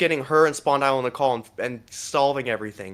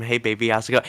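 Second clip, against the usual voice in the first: mock flirting; 3 semitones lower, faster than usual. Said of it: "is, like, talking like this".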